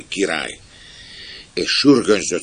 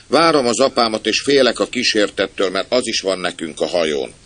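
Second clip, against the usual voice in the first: put-on high, loud small boy; child's voice; 5 semitones higher, 4 dB louder than usual. Boy waiting for father, afraid of the ghost, child's voice. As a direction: confide it like a little kid. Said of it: "kérdezte egy gyerekhang".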